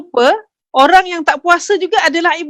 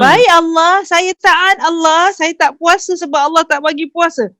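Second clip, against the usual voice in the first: obedient reply; 3 semitones higher than usual. Retold or imitated. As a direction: answer a command dutifully, drawing it out. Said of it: "Itu juga adalah ketaatan". (jawapan patuh yang dilakonkan)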